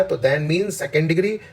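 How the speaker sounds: slow, deliberate grammar point; slow explaining. Shown as a demonstration. Teacher slowly explaining second degree to students. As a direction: lay out the rule slowly. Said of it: "because के बाद जोर लगाइए".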